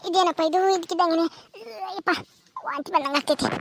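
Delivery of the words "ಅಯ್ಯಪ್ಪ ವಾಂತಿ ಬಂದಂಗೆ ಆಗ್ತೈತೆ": queasy, about to vomit. Acted.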